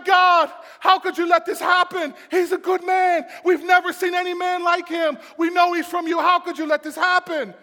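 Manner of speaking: high, loud anguished cry to God; impassioned, shouted lament. Acted. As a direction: wail the protest to heaven at full voice. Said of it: "And he's crying".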